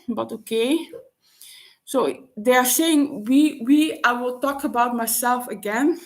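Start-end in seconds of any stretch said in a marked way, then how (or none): 1.8-6.0 out of breath. Real, not acted. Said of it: "I'm a little bit out of breath".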